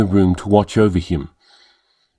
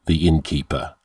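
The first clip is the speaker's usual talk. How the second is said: suggestive; 4 semitones lower, 5 dB quieter than usual. Acted. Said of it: "he said suggestively".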